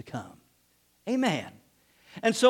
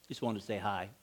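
much softer and lower, with a laugh; tiny innocent voice; child admitting it only wanted hi; sheepish little reply; 11 semitones lower, 12 dB quieter than usual. Retold or imitated. Child's punchline, quiet and sheepish.

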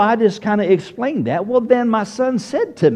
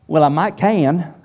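put-on Southern accent; 2 semitones lower than usual. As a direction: answer like a Southern wife, "can" stretched toward two syllables. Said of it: "this is how she would answer it coming from the South".

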